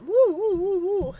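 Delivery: high, loud whooping; excited whoops. Real, not acted. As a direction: cheer it up. More cheering.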